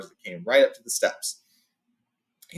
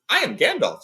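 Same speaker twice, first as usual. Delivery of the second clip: higher, louder, grand announcement; proud wizard; 12 semitones higher, 4 dB louder than usual. A narrator's reading. Wizard introducing himself to Beorn, proud. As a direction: announce yourself with ceremony.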